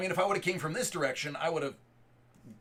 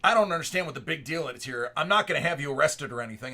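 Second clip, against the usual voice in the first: fast, louder mock brush-off; imitating dismissive lady; 5 dB louder, faster than usual. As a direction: rattle it off like she can't see the fuss. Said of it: "She goes".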